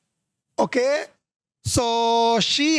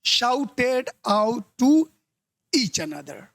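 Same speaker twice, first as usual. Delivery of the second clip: slow teacher recap, fading at the end; slow recap reading; much slower than usual. Shown as a demonstration. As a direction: read it slowly, trailing off. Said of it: "तो गलती किस में है?".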